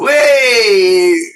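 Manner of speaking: high, loud sudden stop; startled exclamation; sudden wait. Real, not acted. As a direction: cut yourself off, struck by something. Sudden interruption mid-sentence.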